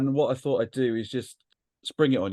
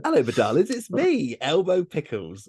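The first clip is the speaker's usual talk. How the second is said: campy drag queen; 2 semitones higher than usual. Pretend. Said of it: "Elmo's Quiz Corner".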